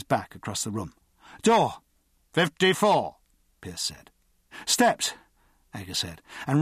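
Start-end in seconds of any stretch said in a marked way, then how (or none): 1.4-3.2 high-pitched drill call. A narrator's reading. Ager and Pierce in the timed run, called out. 4.7-5.1 high, quick one-word call. A narrator's reading. Ager sprinting through the timed run, called out. Timed drill, calling out steps.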